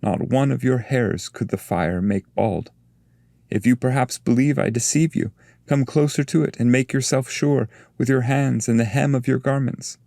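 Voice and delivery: a patient master urging trust; Virgil's voice. Acted.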